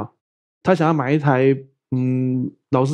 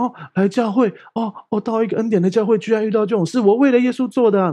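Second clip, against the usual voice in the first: lightly voiced wounded believer, pitched higher; hurt churchgoer; 5 semitones higher than usual. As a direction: mimic a hurt member's dismay, half-mock. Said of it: "大家就很受伤". (略带模仿的受伤信徒语气)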